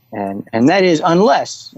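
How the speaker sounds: slow, stretched weight landing on "unless"; stressed unless. Shown as a demonstration. Coach stressing "unless" for listeners. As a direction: lean on "unless" to mark the condition. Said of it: "you have to underline unless".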